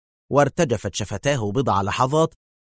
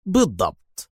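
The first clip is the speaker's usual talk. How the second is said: raised-pitch word of triumph; triumphant; 4 semitones higher than usual. A narrator's reading. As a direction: say it as the winner. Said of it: "في ظفر قائلا".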